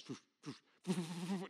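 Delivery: imitated quick soft whooshes; airy flashes going off; whooshing noise. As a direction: puff out little foofs of air. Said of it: "It goes".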